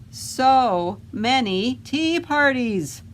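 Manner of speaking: slow, drawn-out sigh of disgust; exasperated drawl. Acted. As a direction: drag it out, fed up with tea parties. Goblin exasperated by tea parties.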